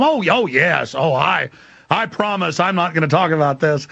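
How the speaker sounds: mock-earnest promise; feigned compliance. Detainee lying to the feds to get released, feigned compliance. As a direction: pretend to agree, lightly hammed up. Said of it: "so I just lied".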